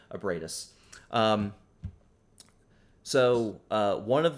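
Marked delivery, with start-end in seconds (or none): 0.1-0.7 Bradus as BRAY-dus; correct name. Shown as a demonstration. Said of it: "it's a Bradus, sorry".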